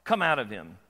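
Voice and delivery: loud, commanding rebuke; stern rebuke. Acted. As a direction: order the demon out sharply. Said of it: "Jesus rebukes him and says".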